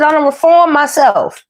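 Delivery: high, drawn-out put-on accent; a rapper's accent. Reader quoting a rapper on reforming, playful accent impression. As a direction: stretch the words in an imitated rapper's accent. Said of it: "Y'all know how that rapper talk".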